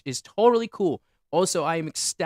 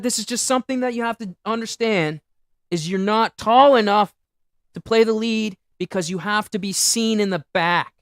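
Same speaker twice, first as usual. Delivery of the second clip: quoting the director; 4 semitones higher, 4 dB louder than usual. Retold or imitated. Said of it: "the director told me straight up".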